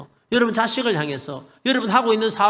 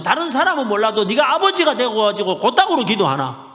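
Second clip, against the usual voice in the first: God scolding; 4 dB louder than usual. Retold or imitated. God scolding a father who prays carelessly, stern rebuke. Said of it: "야단을 막 치시는 거예요".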